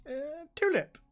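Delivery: high, loud, cocky answer; fearless reply. Acted. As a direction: say it with zero fear. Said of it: "Without a hint of fear".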